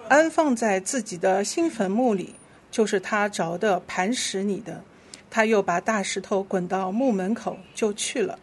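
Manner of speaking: measured, clearly phrased Bible reading; scripture reading. Real, not acted. Leader reads Scripture to the congregation, measured scripture reading. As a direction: lead the congregation through the verse.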